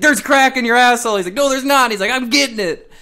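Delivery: squeaky mock dialogue; high squeaky voices. Acted inspector exchange.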